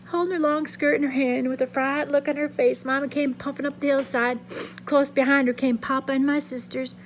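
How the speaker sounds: steady reading-aloud voice, lively for the figures; story narration. A narrator's reading. Teacher reading a novel chapter aloud to students, expressive narration. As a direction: read the chapter to the class like a storyteller.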